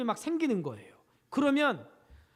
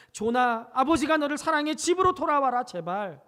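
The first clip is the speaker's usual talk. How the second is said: pleading call; 2 semitones higher, 5 dB louder than usual. Retold or imitated. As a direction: call it out across the rocks, pleading. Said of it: "바위만 있으면".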